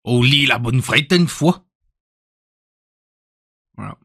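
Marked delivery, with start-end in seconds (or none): 0.0-1.7 mock Belgian French accent. Shown as a demonstration. Streamer showing viewers they can do Belgian, Belgian accent. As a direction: put on a hammy Belgian accent. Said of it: "je peux faire l'accent belge".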